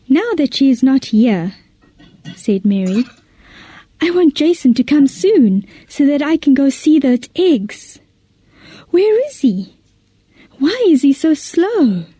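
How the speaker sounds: put-on an eager girl who can't wait for her friend; Mary impatient. Mary impatient, waiting for Jason.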